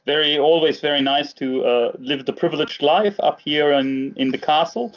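put-on the Baron in a mild German accent up in his castle. Baron greets the podcast hosts in a light German accent. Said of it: "I'm detecting an accent as well".

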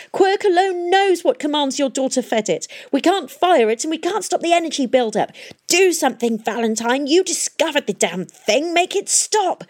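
high, loud frantic pleading; panicked plea. A narrator's reading. Kroom frantically begging Valentine to stop the machine. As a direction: beg him to stop it.

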